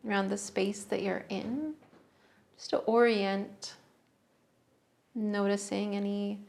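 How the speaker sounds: unhurried meditation guidance, long pauses between phrases; guided meditation. Real, not acted. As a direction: guide listeners gently into the breath, phrase by phrase. Leads a breathing meditation.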